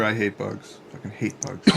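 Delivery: quiet in-character grumble, barely above a whisper; stage whisper. Acted. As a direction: mutter it softly under your breath. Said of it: "I whisper".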